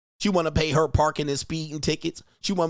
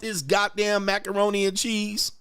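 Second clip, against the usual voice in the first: mock angry rant; 5 semitones higher than usual. Husband shutting down his wife about forks, mock angry. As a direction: bark it at the wife in jest.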